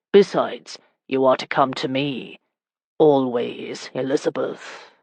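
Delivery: low, intense insistence, softening on the name; growing intense. Acted. Husband tells wife to come to him, intense. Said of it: "His voice grew intense".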